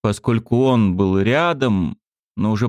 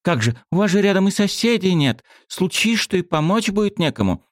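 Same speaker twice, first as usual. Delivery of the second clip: put-on high girl voice; 10 semitones higher than usual. A narrator's reading.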